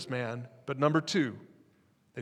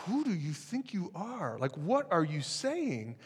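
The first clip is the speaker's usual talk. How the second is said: high, hushed disbelief; angry crowd doubting Jesus, high mock disbelief; incredulous crowd; 4 semitones higher, 5 dB quieter, slower than usual. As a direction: voice the stunned crowd, pitched up. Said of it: "They're like".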